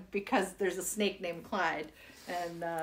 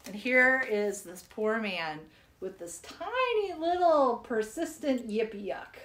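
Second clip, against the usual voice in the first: poem reading. Acted. Reading the Yippee Yuck poem to children, storytelling. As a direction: tell it like a sad old man's tale.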